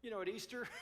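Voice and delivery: reluctant withdrawer. Retold or imitated.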